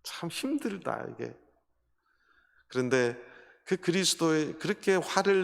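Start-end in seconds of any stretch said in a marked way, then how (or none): 0.0-1.3 tearful. Retold or imitated. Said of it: "막 울면서 간증을 하시더래요".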